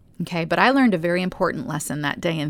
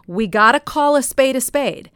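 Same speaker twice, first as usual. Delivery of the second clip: blunt Jersey accent, higher and louder; 6 semitones higher, 6 dB louder than usual. Shown as a demonstration. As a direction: lay it down bluntly, Jersey style. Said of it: "this is a little bit of Jersey Blunt here".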